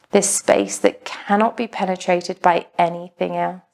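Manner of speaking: even, unhurried meditation voice with long pauses; calm, measured yoga-teacher delivery; guided meditation. Acted. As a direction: guide a class gently into stillness, pausing between phrases.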